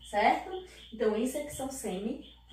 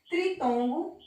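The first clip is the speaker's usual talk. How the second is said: teacher singles out tritongo with a lift; stressed term; 6 semitones higher than usual. Shown as a demonstration. Teacher contrasting ditongo for students, stressed lift. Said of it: "tritongo vem de três".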